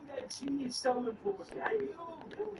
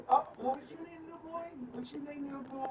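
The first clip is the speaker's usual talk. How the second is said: put-on talking to a child; 6 semitones higher than usual. Asking the little boy his name, high-pitched coaxing. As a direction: coo it up high, as to a small child. Playfully addressing the child dwarf.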